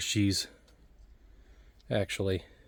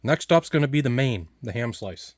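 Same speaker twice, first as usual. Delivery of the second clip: mouth full; 2 semitones higher than usual. Real, not acted. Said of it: "sorry to talk my mouth full".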